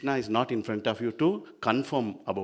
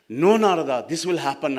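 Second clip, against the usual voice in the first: firm insistence; 4 semitones higher, 8 dB louder than usual. Acted. Mahavishnu insists to doubting Narada.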